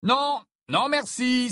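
high, flustered decline; hurried refusal. A narrator's reading. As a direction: hastily turn the offer down. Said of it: "s'empressa de répondre".

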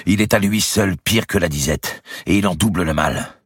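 indignant outcry. A narrator's reading. Brother railing against the provost, angry. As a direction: spit out his contempt for the provost. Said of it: "s'écria Pierre de Cresset".

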